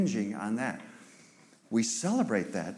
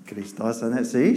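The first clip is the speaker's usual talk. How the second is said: native Greek; 6 dB louder than usual. Real, not acted. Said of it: "See, she said it right".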